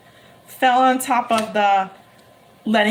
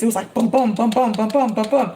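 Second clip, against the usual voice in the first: heartbeat sounds. Retold or imitated. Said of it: "My heart just, like, raced".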